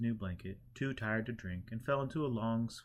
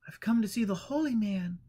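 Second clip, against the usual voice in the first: higher, insistent visitor voice; eager visitor; 10 semitones higher, 5 dB louder than usual. A narrator's reading. Visitor at the door asking for the holy man, higher. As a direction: push to see the holy man.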